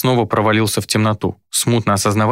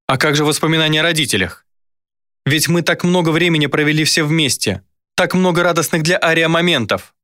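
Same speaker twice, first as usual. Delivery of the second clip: pleading demon woman; 7 semitones higher than usual. Acted. Demon pleads about the boy's memories.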